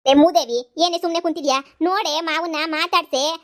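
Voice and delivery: loud sharp scold; mother yelling at her silent daughter. Acted. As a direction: bark at the lazy daughter.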